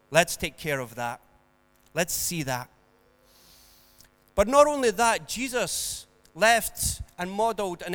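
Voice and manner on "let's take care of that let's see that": lower, gentle reassuring doctor; calm doctor. Acted. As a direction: soothe like a calm doctor tending a cut. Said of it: "would calmly say".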